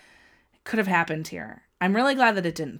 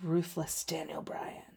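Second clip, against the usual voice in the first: whispered awe; 3 semitones lower, 12 dB quieter than usual. Real, not acted. Awed aside while watching match.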